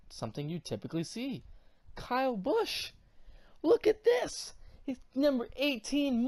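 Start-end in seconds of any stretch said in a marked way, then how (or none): 2.0-4.5 exclaiming. Real, not acted. Exclaiming at the car reveal.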